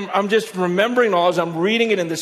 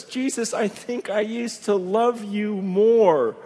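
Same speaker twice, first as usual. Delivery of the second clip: slow, drawn-out confession ending on more; slow pleading admission; sorrowful confession; 2 semitones higher, slower than usual. Retold or imitated. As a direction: let each word weigh, slowly. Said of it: "you want those words to ever come out".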